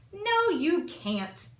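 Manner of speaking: loud, high and drawn out, booming down at the little one; big blustery voice. Acted. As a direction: boom it slowly like a bossy big aunt. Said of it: "had big blustery voices".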